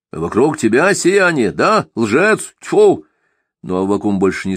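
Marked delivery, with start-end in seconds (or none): 0.1-3.1 higher, louder spitting contempt; scornful outburst. Acted. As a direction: sneer then spit at him. Simagin voiced in narration.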